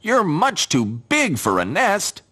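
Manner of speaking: high, slow little bird voice; chirpy small bird speaking. Acted. Birds talk to scarecrow.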